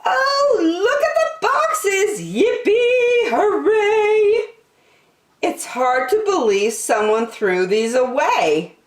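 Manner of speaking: put-on high, bright child voice, singing the cheers; a thrilled kid who just found treasure; excited little girl Jillian. Jillian's excited speech about boxes.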